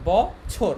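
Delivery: বছর in two separated syllables, bo, chhor; teacher spelling out বছর by ear; careful pronunciation demo. Shown as a demonstration. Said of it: "কিন্তু উচ্চারণটা কিন্তু এভাবে হচ্ছে".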